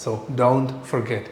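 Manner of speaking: slow, soft don't forget; slow teacher repetition; very slow model. Shown as a demonstration. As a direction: draw it out for learners. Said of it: "Don't എന്ന് പറയുന്നത്".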